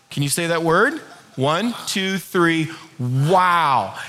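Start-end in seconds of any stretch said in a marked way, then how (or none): 3.0-4.0 low, unimpressed wow; unenthused wow. Shown as a demonstration. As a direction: say wow as if rolling your eyes. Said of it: "like you're not rolling your eyes".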